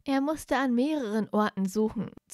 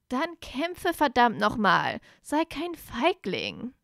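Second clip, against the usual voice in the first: near roar; 3 semitones higher, slower than usual. Acted. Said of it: "brüllte Blaise ihn schon fast an".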